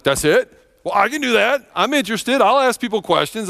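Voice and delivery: put-on excited kid. Young Joel hears mom's advice.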